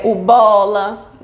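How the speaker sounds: put-on "o bola" slowly, like a toddler naming it; slow childlike "o bola"; toddler word. Shown as a demonstration. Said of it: "Por exemplo". ("o bola" devagar, como criança)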